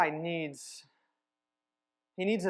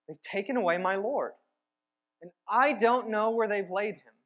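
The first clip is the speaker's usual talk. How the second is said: pleading, a little louder; desperate; 3 semitones higher, 4 dB louder than usual. Acted. Mary pleads with the angels, mildly desperate. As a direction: push the plea, mildly desperate. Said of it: "She's feeling desperate".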